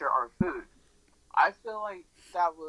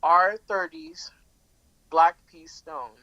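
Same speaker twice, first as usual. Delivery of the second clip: loud and slow; 10 dB louder, slower than usual. Real, not acted. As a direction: announce the name loudly, slowly.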